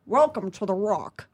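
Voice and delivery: slow, lightly Scottish Connery voice; a half-hearted Sean Connery; Sean Connery impression. Retelling an audition impression, slow mild Scottish. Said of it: "I did Sean Connery".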